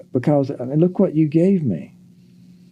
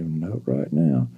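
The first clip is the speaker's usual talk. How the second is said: slow, low refusal; 8 semitones lower, 5 dB quieter, much slower than usual. Shown as a demonstration. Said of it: "I say".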